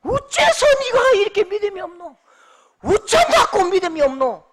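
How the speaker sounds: loud, high rebuke in broad Gyeongsang dialect; Daegu dialect. Shown as a demonstration. Preacher jokingly offering Jesus' rebuke as standard speech, Daegu dialect. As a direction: scold in thick Daegu accent, high then falling. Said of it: "표준말로 하면요".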